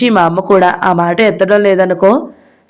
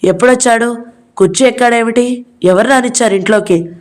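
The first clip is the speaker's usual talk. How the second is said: higher, mock shouting questions; a storyteller's raised yell at the intruder; yelling brother; 4 semitones higher than usual. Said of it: "గట్టిగా కేకలేశాడు". (గట్టిగా కేకలు)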